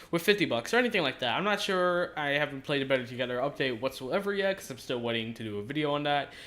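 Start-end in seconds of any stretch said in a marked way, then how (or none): 2.2-6.3 talking with fresh mouth stitches. Real, not acted. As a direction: speak carefully around mouth stitches. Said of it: "why I don't sound that normal".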